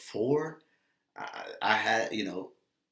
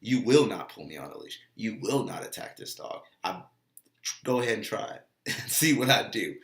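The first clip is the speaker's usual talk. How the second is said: louder, firm and in charge; firm commanding thought; 4 dB louder than usual. Shown as a demonstration. Dog owner voicing action thoughts, firm command. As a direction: tell the dog who's boss. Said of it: "Or you can have action thoughts".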